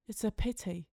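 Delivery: hushed, kindly sympathy; soft, sympathetic. A narrator's reading. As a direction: offer it softly to a grieving stranger. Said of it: "she said softly, sympathetically".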